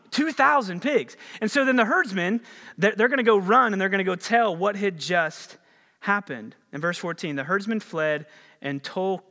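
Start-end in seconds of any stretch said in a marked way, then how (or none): 0.1-3.2 astonished. Real, not acted. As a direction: savor the absurd number. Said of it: "it's just wild to me".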